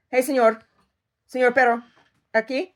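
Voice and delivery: high, loud sing-out to a pet; calling the dog. Real, not acted. Calling her dog over.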